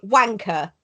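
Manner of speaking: a crisp British "wanker"; British-accented demo word. Shown as a demonstration. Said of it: "Sounds great in a British accent".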